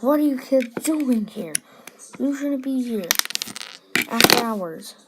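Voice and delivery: put-on loud, scolding night guard catching kids; stern guard shout. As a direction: bark it out like a guard who caught trespassers. Guard catches kids after hours.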